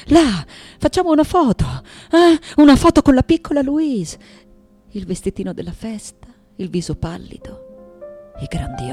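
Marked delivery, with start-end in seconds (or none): 0.0-4.2 loud, high call for a photo. Acted. Father calling for a photo with little Louise, calling out. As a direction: call out brightly to gather them.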